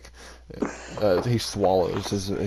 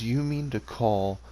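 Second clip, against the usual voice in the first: amused disbelief; 5 dB quieter, slower than usual. Acted. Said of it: "he kinda chuckles a little bit and goes".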